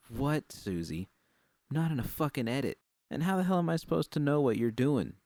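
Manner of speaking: snapping back. Acted. Judy snapping at Susie for interrupting her, angry. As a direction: snap at her, rising to a near shout by the end. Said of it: "Don't snap at me".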